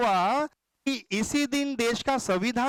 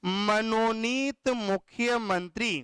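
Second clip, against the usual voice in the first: slow, drawn-out answer with a rise at the end; teacher drawing out मनोनीत मुख्यमंत्री slowly so it sticks; slow emphatic answer; slower than usual. Shown as a demonstration. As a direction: spell it out slowly for the class. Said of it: "तो अब इन्हें हम क्या बोलेंगे?".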